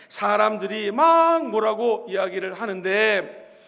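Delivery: normal talking voice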